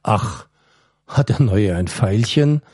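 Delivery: a touch of mock innocence, not trying to be believed; feigned innocence. Prisoner to guard, pretending not to know, mildly sly. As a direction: ask with obviously fake surprise. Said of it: "seinen scheinheiligen Tonfall".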